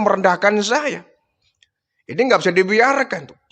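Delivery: a touch of an arrogant chief enraged; mild furious rant. Acted. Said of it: "marah luar biasa".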